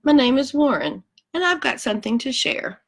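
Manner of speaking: a lightly voiced cheerful koala; koala introducing himself. Koala Warren greets the children, lightly voiced. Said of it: "he says".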